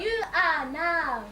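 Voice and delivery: cold rebuff. Acted. Receptionist rejecting her former suitor.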